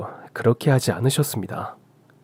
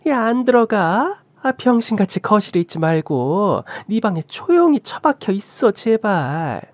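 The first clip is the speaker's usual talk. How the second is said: exasperated, high-pitched telling-off; abusive mother-in-law; 8 semitones higher than usual. A narrator's reading. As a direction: berate them in a raised pitch. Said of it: "시어머니조차 막말을 내뱉기 시작했어요".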